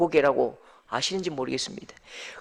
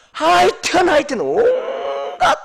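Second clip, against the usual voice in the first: exasperated; 12 semitones higher, 4 dB louder, much slower than usual. Acted. Exasperated high drawn-out sigh words.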